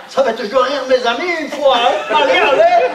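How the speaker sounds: lightly put-on Belgian accent with "une fois"; a mild Belgian lilt, hamming it. Fake Swiss shows off his Belgian accent. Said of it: "c'est l'accent belge".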